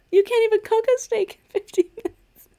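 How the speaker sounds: high, loud, laughing protest; ranting about a fifteen-minute steak; incredulous rant. Retold or imitated. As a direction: rant it in cracking disbelief. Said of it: "And I'm like".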